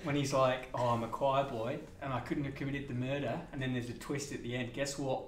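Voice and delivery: broad mock Aussie accent, telling a film story; hammed-up Aussie accent chatting to the stream; full Australian accent. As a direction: lay on a thick Australian accent like a bloke down the pub. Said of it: "You've gone full Australian".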